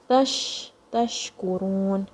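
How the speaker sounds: "Tash" with a long hushing sh, then slow "tashkurun"; spreading sheen. Shown as a demonstration. Teacher showing sheen in the mouth, prolonged sh in "tashkurun". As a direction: draw out the sh in "tashkurun". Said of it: "feel the sheen spreading in your mouth".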